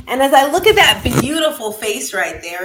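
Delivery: ordinary talk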